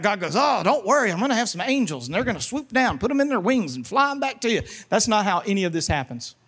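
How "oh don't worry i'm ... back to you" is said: lilting singsong comfort; mock reassurance. God promises angels will fly them back, mock-soothing singsong. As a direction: soothe with an exaggerated up-and-down lilt.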